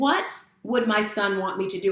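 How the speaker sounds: normal talking voice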